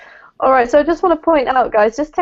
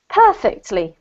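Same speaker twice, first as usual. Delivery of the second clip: perfectly as PERfectly, falling; PER in perfectly carries the weight; stress on first syllable. Shown as a demonstration. Teacher models perfectly, first syllable stressed. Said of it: "emphasis on the first syllable".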